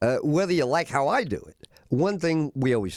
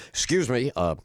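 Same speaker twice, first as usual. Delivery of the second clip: deep, smooth hotel-guest voice; lightly lowered, smooth and polite; low voice; 5 semitones lower than usual. Retold or imitated. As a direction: lower your voice and sound important. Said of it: "get my, uh, low voice going".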